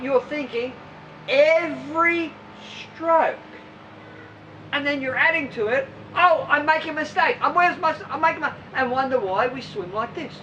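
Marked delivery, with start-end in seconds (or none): 6.1-8.5 louder, flustered worried swimmer; mock panic. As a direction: gasp it like a swimmer who thinks he's failing.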